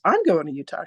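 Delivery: lightly voiced excited friend, livelier. Best girlfriend learns they share a Utah trip, mildly excited. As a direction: echo it back with a touch of excitement. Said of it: "And she goes".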